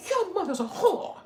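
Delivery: high, loud, slow unhinged scream through a laugh; hammed-up crazy asylum inmate yelling; crazy person yelling. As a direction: shriek it like a madman. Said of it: "this random crazy person came up to him".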